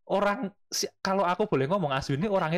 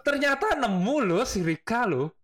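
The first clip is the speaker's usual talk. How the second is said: laughing; 3 semitones higher than usual. Real, not acted. Amused about friend finding wife.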